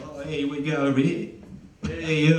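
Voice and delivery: lightly put-on Brooklyn tough-guy voice; mock tough guy. Comic mimicking a tough-acting usher in Ohio, mock tough. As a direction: play at being the tough usher. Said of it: "come out, like, all, like, tough".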